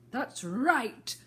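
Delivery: high, loud approval; the Queen shouts approval at the soldiers; shouting Queen. A narrator's reading. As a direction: bark it out with satisfaction. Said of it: "shouted the Queen".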